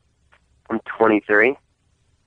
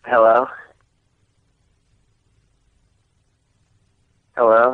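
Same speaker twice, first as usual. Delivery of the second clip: plain. Real, not acted. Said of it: "I have a cold".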